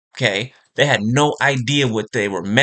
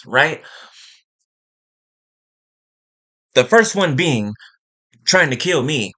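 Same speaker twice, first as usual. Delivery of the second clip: higher, heated scolding in grandma's voice; channelling grandma's fury at the listener, pitched up; grandma pissed; 5 semitones higher than usual. Acted. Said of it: "That's her. She is pissed".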